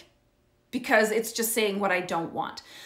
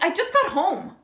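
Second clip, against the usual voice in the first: defensive son; 8 semitones higher than usual. Retold or imitated. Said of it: "He's like".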